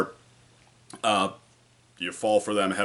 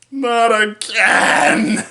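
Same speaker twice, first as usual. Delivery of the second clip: long, high, drawn-out shout; anguished hero cry; 13 semitones higher, 10 dB louder, much slower than usual. Retold or imitated. Reviewer acting out Saitama's punchline after one punch, anguished shout. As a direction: cry out in over-the-top dismay.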